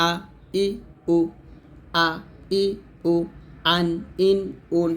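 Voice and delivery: "আ", "ই", "উ", "আন", "ইন", "উন" each separate with a hard onset; short isolated syllables from "আ" to "উন", pauses between, firm in the throat; firm throat hamza. Shown as a demonstration. Teacher summing up hamza sounds for learners, firm separate syllables. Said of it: "এরকমভাবে আপনাকে হামজার উচ্চারণ করতে হবে".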